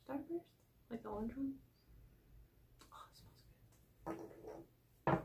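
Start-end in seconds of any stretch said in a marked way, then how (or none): 2.9-5.2 slow unvoiced whisper. Real, not acted. Whispering while smelling the candle again. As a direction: savor it in a whisper.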